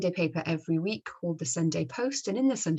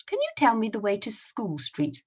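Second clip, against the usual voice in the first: put-on Scottish accent; 4 semitones higher than usual. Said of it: "read them using the Scottish accent".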